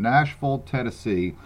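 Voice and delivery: natural Southern "Nashville", ending reduced; Southern accent. Real, not acted. Host promoting an expo, Southern accent. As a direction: say "Nashville" with a real Southern slur. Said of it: "I just can't help that Southern upbringing".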